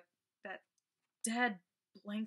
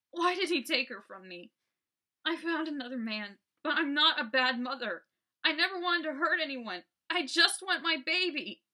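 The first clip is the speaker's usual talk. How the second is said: higher, louder, breaking with grief; tearful pleading; 8 semitones higher, 8 dB louder than usual. Acted. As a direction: beg through tears, rising as you go. Ghost crying for her child.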